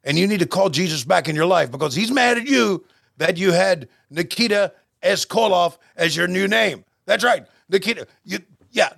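a half-hearted Ivan Koloff doing a mock promo; a hint of the old Russian Bear cutting a promo; Ivan Koloff impression. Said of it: "you gotta tell me what you think, uh, Ole Ivan's thinking".

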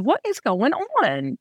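slow, drawn-out disbelief; retold bewilderment. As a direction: stretch out the baffled question. Her reaction on waking with palsy.

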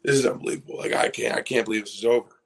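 whispered start rising into stunned disbelief; retold bawling. Crying to teammates that it's over, retold bawling. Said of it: "I'm bawling".

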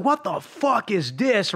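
slow, drawn out imitation; a touch of disgusted anger; mock angry outburst. Retelling friend opening the food, slow drawn-out mock anger. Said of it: "He's like".

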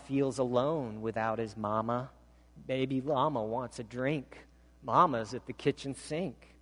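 lilting picture-book reading; reading to children. Acted. Pastor reading a children's book to church, sing-song reading. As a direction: read it like bedtime story.

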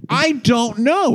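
high, drawn-out exasperation; exasperated. Real, not acted. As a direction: stretch it out high, at a loss. Exasperated answer about songwriter.

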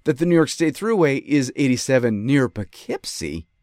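lawyer addressing the judge; mock courtroom plea. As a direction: plead it like to a judge. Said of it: "I say".

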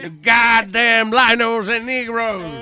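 slow, loud drawn-out hick snarl; mock redneck rant. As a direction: drag it out like an angry hillbilly.

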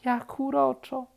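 charmed. A narrator's reading. Bear admires happy woodpecker, cooing high. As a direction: coo it, enchanted.

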